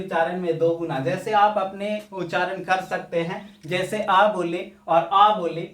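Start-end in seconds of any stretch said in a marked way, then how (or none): 3.6-5.7 आ first clipped short, then आ stretched long. Shown as a demonstration. Teacher showing students short and long आ, stretched second vowel. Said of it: "आ में थोड़ा कम समय ... थोड़ा ज्यादा समय".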